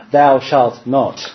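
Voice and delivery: slow, solemn mock commandment; hammed-up stern father decree.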